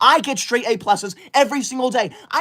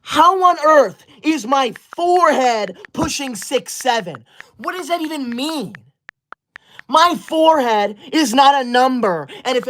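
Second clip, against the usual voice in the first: mock outrage; 4 semitones higher than usual. Outraged at forehead comment.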